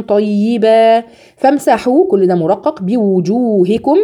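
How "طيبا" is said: طيبا with a heavy ط, drawn out; heavy ta, slow. Shown as a demonstration. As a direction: stretch the ط in طيبا full and heavy. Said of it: "تفخيم الطاء". (طيبا بطاء مفخمة ممدودة)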